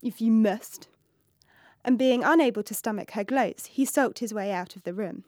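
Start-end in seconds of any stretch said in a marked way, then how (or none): 0.0-0.9 sniffed. Acted. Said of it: "he simply sniffed".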